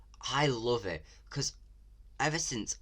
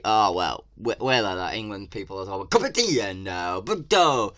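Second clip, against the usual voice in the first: a lightly voiced clueless Brit, louder; mock English person; 6 dB louder than usual. Vlogger mocking English characters in the game. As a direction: parody how the game's Brits talk. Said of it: "they just say".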